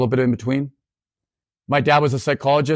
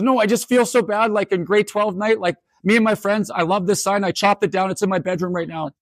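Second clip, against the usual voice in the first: student confessing; 7 semitones higher than usual. Retold or imitated. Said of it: "She's yelling".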